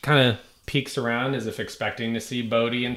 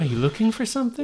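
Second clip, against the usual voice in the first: put-on old lady voice; 12 semitones higher, faster than usual.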